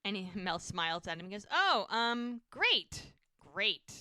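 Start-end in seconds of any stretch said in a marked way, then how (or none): 1.5-3.9 awkward, halting acted reply; flustered. Jack hears she's in labor, awkwardly flustered.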